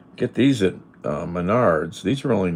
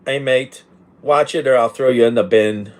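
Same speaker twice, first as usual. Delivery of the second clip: loud, higher British bloke threat; British accent; 6 semitones higher, 10 dB louder than usual. Acted. Streamer asked for British accent, loud British threat. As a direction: play a rough British lad. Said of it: "Uh, British".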